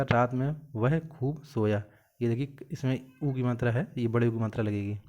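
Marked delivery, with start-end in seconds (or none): 0.0-1.8 slow, with weight on वह, रात में वह खूब सोया spelled out word by word; slow corrected reading. Shown as a demonstration. Teacher slowly reads the corrected sentence to students. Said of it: "तो यहाँ पे क्या हो जाएगा".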